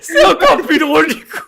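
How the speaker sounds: high, loud laughing; words through hard laughter. Real, not acted.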